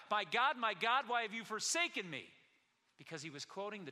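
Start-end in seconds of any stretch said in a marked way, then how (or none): 0.1-2.3 crying out. Acted. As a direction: cry out with preacher's force. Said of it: "And he cried out".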